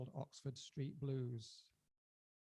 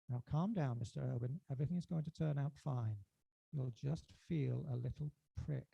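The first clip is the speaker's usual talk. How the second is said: reassuring nurse; 5 dB louder than usual. Acted. Nurse calming a frightened patient, reassuring. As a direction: settle the patient gently. Nurse's soothing reply in poem.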